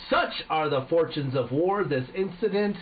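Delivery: grand American general, slowing to the close; exaggerated American accent. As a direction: sign off as a hammy American general. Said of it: "It's a fucking American".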